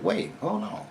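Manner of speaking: high, thin "wait, hold on"; startled plea. Retold or imitated. Man threatened by gang, high startled plea.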